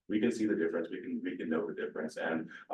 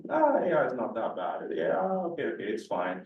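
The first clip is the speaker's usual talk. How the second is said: relieved shrug; 5 semitones higher, 4 dB louder than usual. Retold or imitated. Voicing a relieved public.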